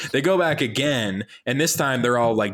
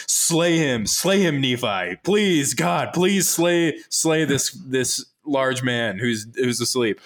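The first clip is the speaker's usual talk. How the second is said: pleading angel voice; 3 semitones higher, slower than usual. Retold or imitated. Angel begging Nephi to slay the sleeping man, mock pleading. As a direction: beg him to do it, hammed up. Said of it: "this angel keeps telling him".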